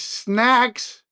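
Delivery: a hint of a newsman impersonation; Wolf Blitzer. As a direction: draw the word out in mild imitation. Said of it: "And Blitzer will be like".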